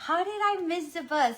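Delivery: high, slowed-down wail of panic; mock-despairing, drawn-out "oh my gosh"; panicked dismay. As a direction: act out the moment she realizes she missed the bus. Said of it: "And I'm like".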